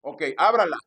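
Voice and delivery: slow, insistent mock order; imitated pushy pastor. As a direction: mimic a pastor pressing for money. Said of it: "con ese acento y ese tono de voz".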